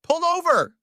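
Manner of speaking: high, loud screamed order; furious scream. A narrator's reading. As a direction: scream it at another driver. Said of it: "he screamed over the car speakers".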